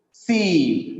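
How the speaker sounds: "Sieve" as the syllable "ceive", long ee; one vowel sound. Shown as a demonstration. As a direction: stretch "Sieve" on a single ee vowel. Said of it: "the sound is only one".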